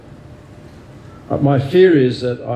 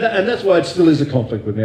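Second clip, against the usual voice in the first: laughing; 6 semitones higher than usual. Real, not acted. Still chuckling after joke.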